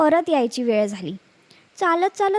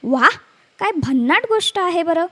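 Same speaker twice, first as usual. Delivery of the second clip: amazed wolf; 3 semitones higher, 4 dB louder than usual. Acted. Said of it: "लांडगा आश्चर्यचकित होऊन म्हणाला".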